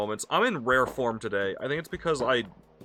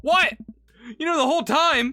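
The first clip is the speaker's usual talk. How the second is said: high, louder astonished question; shocked disbelief; 10 semitones higher, 5 dB louder than usual. Acted. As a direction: gasp it out in disbelief. Brian's shocked reaction.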